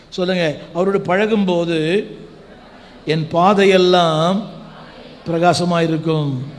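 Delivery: ringing call-and-repeat preaching; feed each phrase to the congregation to repeat; preacher leading declaration. Real, not acted. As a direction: lead the crowd in declaring it.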